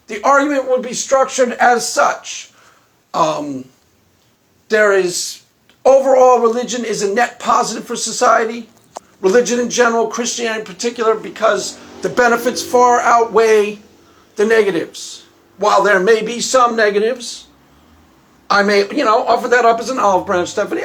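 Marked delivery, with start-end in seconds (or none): none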